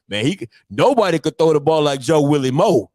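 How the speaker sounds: lightly voiced old-timer bragging; a hint of a boastful old sports fan; old-head impression. Old head praising Joe Willie Mo, mock boasting. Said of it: "That's how they be sounding".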